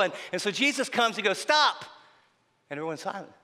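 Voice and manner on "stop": sharp, loud, high command; commanding stop. Retold or imitated. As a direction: cut the wailing off dead. Jesus silences the wailing mourners.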